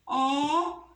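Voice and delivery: "ônibus" in three separate beats: ô, ni, bus; teacher dividing "ônibus" syllable by syllable; split into syllables. Shown as a demonstration. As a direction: break "ônibus" apart, pausing after each syllable. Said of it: "Vamos separar a palavrinha".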